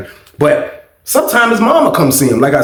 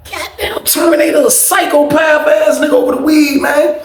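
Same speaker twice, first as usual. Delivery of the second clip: mock yelling rant; 10 semitones higher than usual. Narrator ranting on the pod.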